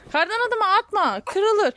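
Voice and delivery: breathless from rolling snow; winded, gasping between words; out of breath. Real, not acted. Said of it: "Nefesim kesildi çünkü".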